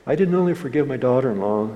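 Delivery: mildly excited, imitating the caller; retold excitement. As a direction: eagerly relay it, a little fast. Retold excited phone call from man.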